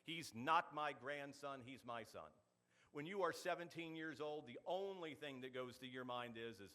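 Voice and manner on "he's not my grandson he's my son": slow, emphatic mock indignation; mildly indignant, each word stressed; indignant little boy. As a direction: imitate an affronted small child, drawing it out. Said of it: "He got indignant".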